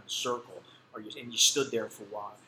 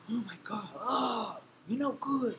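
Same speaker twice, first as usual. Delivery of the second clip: high, whiny mock outrage; mocking the police; 11 semitones higher, slower than usual. Police scolding the prisoner, in a high mocking whine. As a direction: mimic them in a high, whining voice. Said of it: "the police got pissed".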